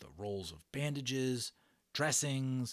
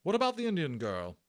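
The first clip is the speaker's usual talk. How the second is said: put-on eager boy; 8 semitones higher, 7 dB louder than usual. Boy suggesting helper.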